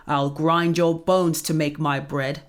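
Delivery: threatening giant. Acted.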